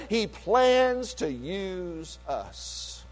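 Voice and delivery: quiet repeat. Real, not acted. Pastor repeating his point to the church, hushed and slow. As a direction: drop to a near hush to let it sink in.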